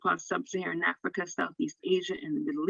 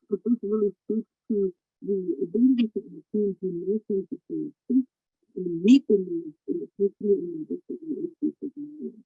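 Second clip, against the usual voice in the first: garbled underwater call audio. Real, not acted. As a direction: voice bubbling through a bad connection. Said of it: "It sounds like you're underwater".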